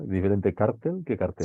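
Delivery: cártel stressed on the first syllable, cartel on the last; stress contrast cártel vs cartel. Shown as a demonstration. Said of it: "cartel es palabra aguda".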